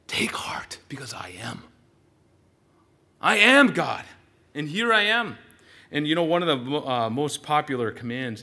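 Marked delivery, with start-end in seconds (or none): 0.1-1.6 whispered, no voice. Acted. Jesus whispering comfort to frightened disciples. 3.2-5.4 declaration. Acted. Jesus declares himself.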